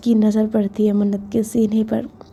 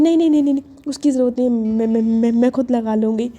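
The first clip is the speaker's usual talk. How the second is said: flustered rush; faster than usual. Acted. Panicked refusal.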